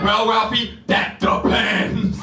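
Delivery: mom voice. Pretend. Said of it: "And she said".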